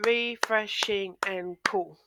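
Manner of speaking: slow, each syllable of "refreshing and cool" set apart. Shown as a demonstration. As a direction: break "refreshing and cool" into separate beats for clapping. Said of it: "if you can hear me clapping".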